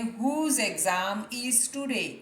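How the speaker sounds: very slow, word by word; slow dictation-style read; slow model sentence. Shown as a demonstration. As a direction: spell it out slowly for learners. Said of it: "teacher models English sentence slowly".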